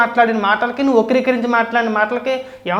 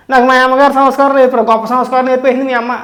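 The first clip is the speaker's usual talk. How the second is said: mimicking his proud claim, louder and higher; mock boast; 3 semitones higher, 4 dB louder than usual. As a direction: throw his boast back with scorn. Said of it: "ఏమని మాట్లాడుతున్నాడండి ఇవాళ". (ఎగతాళిగా గొప్పలు అనుకరిస్తూ)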